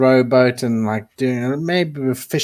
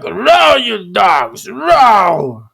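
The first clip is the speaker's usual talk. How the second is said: loud pirate captain shout; barked rowing orders; 6 semitones higher, 5 dB louder, much slower than usual. Retold or imitated. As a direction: bark at the crew like a pirate. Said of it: "He's like".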